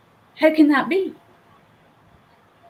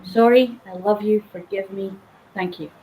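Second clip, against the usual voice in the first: gentle prayer. Shown as a demonstration. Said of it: "a very simple prayer".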